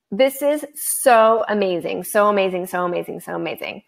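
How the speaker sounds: fading gush. Real, not acted. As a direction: let the delight trail away. Celebrating winner, repeats fading.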